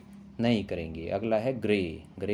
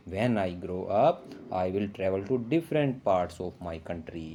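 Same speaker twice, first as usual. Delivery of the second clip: slow, careful read-aloud of a textbook sentence; teacher reading English slowly for pupils; slow model reading; much slower than usual. Shown as a demonstration. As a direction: read each word out slowly for the class.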